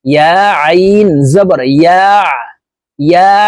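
"ইয়া" ending in a tight mid-throat ayn; drawn "ইয়া" shut with a pharyngeal ayn; pressed ayn. Shown as a demonstration. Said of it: "হলকের মধ্যখান থেকে চাপ দিয়ে".

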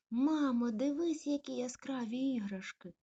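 high, loud cry of delight; excited exclaim. Acted. Puppy showing mum the toys, thrilled exclaim. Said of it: "вигукнула цуценя".

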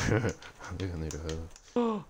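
slow, chuckled delivery; drawn out with a low chuckle; amused chuckling. Real, not acted. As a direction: say it slowly through a sly laugh. Laughs at own double meaning.

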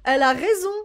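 high, loud cackle into words; real laughter; burst of laughter. Real, not acted. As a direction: laugh hard, then agree through it. Laughs at the scene.

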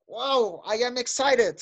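a touch of excitement, for demonstration; understated mock-excited wow; mildly acted excitement. Shown as a demonstration. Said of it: "una persona emocionada".

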